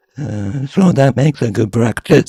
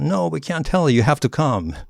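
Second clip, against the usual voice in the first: playful refusal; 8 semitones higher than usual. Retold or imitated. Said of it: "And we said".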